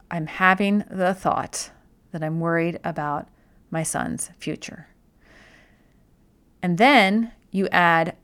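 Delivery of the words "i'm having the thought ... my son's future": slow, deliberate repetition; slowly. Shown as a demonstration. Coach showing listeners how to slow the phrase down, slowly. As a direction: let each word land, taking your time. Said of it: "begin to say it more slowly".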